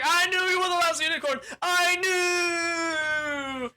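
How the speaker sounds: high, loud, fast raving; hammed-up villain scream; mad king shout. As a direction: rant as the castle falls. Dying king rants as castle crumbles.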